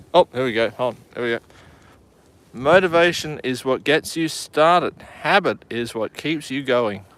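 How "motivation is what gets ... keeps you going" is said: booming motivational speech. Shown as a demonstration. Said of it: "You've got to say it in an inspirational voice".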